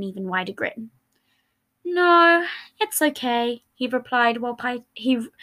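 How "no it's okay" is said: loud no, then a sulky mumble; pouting. Acted. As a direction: sulk and refuse the help. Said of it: "he replied while pouting".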